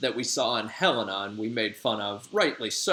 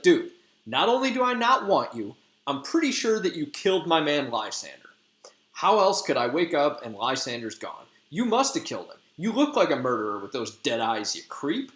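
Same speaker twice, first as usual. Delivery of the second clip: disgusted Hermia; 3 semitones higher than usual. Retold or imitated. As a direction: spit out the accusation in scorn. Hermia accuses Demetrius, disgusted.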